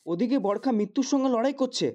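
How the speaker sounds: accusing, pained outburst; upset reproach. Acted. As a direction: confront him, voice lifted in disbelief. Son reproaches father over girl's suffering.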